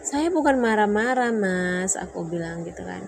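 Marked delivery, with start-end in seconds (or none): 0.1-2.0 higher and louder protest; retold defence. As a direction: insist you're not angry. Retold argument with husband.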